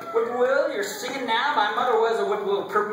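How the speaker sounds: spirited, rhythmic hollering; exultant calling. Acted. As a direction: call out high over the fiddle. Fiddler cries out his tune.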